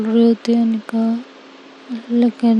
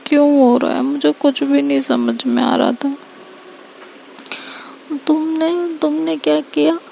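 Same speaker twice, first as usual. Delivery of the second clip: sarcastic Anika; 3 semitones higher than usual. Acted. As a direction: tease her as a martyr hero. Anika apologizes then mocks.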